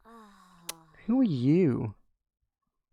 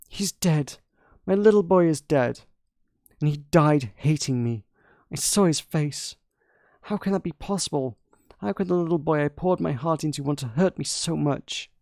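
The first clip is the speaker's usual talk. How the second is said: lightly voiced grieving queen, whispering at first; a mother mourning her son in a hushed voice; understated queen's lament.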